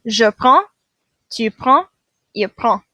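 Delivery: prends and prend end on a nasal vowel, D silent. Shown as a demonstration. Teacher showing the class the silent D, nasal ending. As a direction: say "prends" as "prã", no D. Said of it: "we're gonna end with a nasal sound".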